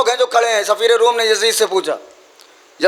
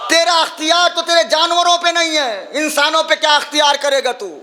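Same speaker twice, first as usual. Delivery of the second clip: angry rebuke; 5 semitones higher than usual. Acted. Zainab taunting Yazid over his power, angry shout. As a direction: hurl the taunt at him.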